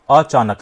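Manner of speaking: "अचानक" broken as अ-चा-नक, last syllable kept whole. Shown as a demonstration. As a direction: say "अचानक" in three separate beats, अ, चा, नक. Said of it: "ध्वनि change नहीं हो रही". ("अचानक" को अ-चा-नक तोड़कर बोलें)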